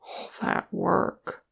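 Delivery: slow, soft, faraway voice; quiet and drawn out; distant. A narrator's reading. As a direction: say it as if lost in thought. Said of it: "his voice was distant".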